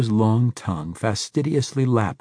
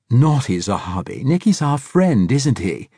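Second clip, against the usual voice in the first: put-on high, loud fussy old Englishman; clucking old man; 5 semitones higher, 6 dB louder than usual. A narrator's reading. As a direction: coo and cluck at the pet snake. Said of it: "the old man clucked".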